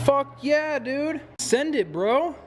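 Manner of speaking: pumped-up dude yelling send it; frat bro. Real, not acted. Car dropped, looks great.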